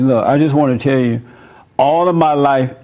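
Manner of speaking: firm, steady telling of the words; strong and firm. Shown as a demonstration. Retelling his talk with mother, firm and steady. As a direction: say it straight out, with confidence. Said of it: "I sound a little stronger now about it".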